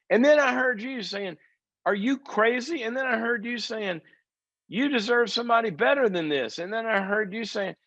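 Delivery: very high mock voice, half-playful; mimicking the friends. Woman tells the group she heard their voices, very high mock voice. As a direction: pitch way up to impersonate the friends.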